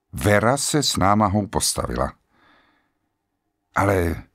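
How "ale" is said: stammering. A narrator's reading.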